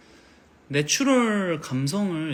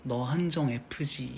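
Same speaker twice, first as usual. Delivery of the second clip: soppy dad; 4 dB quieter, much slower than usual. Pretend. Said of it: "딱 이렇게 하지".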